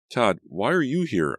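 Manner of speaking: high, loud, sharp demand. A narrator's reading. Natalie confronts Todd at her front door, high and demanding. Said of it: "I demanded".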